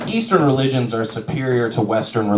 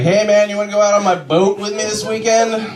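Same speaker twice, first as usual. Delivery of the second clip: friend's invite; 7 semitones higher than usual. Retold or imitated. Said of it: "my friend was like".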